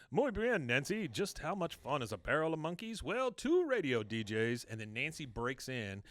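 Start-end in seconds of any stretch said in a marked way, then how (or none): 0.1-4.7 lightly hammed-up TV anchor patter; higher, lively imitation of an anchorman's banter. Anchor handing over to Nancy on TV, lightly hammed-up banter. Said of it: "And he says".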